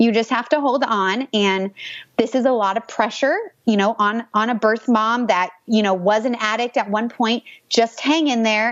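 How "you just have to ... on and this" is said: ordinary delivery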